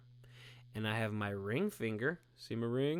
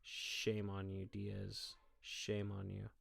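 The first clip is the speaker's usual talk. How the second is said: mock scolding; 4 semitones lower, 9 dB quieter, much slower than usual. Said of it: "definitely give you a dirty look".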